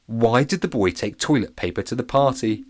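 ordinary delivery, nothing marked

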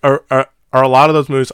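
talking through a mouthful; chewing while talking; mouth full. Real, not acted. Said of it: "I have food in my mouth".

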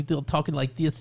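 lightly lisped boxer impression; a hint of a lisping boxer accent; Mike Tyson accent. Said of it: "that whole Mike Tyson accent".

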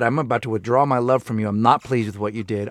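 understated, unhappy parental tone; stern displeasure. Acted. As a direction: let a child hear mild disapproval. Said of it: "My tone is indicating that I'm unhappy".

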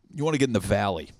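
ordinary talk, nothing marked

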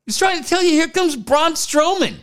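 mock wrestling announcer. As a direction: hype up the entrance like a ring announcer.

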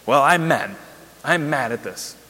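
retold anger, firm emphasis on MAD; lightly acted indignation. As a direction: punch out a mild retold protest. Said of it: "I'm just mad".

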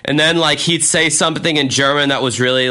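normal talking voice

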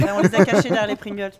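talking with a mouthful; words round a bite of snack; mouth full. Real, not acted. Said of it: "J'ai la bouche pleine de sneakers". (la bouche pleine)

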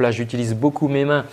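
normal talking voice

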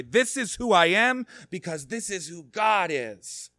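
high, loud cry of faith. Acted. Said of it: "cry out with Mary".

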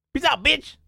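high, loud, cocky goodbye; shouted sign-off. Retold or imitated. Streamer jumping out of helicopter, high shouted sign-off. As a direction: toss out a mock parting shout. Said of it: "he just goes".

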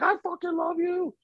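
high-pitched fanboy outburst; mock a fan declaring love in someone's face; starstruck gushing. Fan imagining confessing to his idol, gushing. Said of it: "getting in his face".

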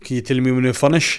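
put-on Brummie interviewer; Birmingham accent. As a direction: chat eagerly in a mock Birmingham accent. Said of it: "That was just my Birmingham".

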